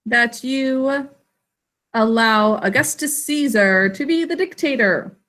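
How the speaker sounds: slow, deliberate example sentence. Shown as a demonstration. Teacher modelling a sample sentence, slow and deliberate. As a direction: read the example slowly, word by word. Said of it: "It's an action to say".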